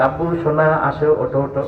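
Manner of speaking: put-on gentle, low pleading with a darling child; affectionate coaxing. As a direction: coax a little child away from danger. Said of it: "সুন্দর করে আদর করে ডাকবে".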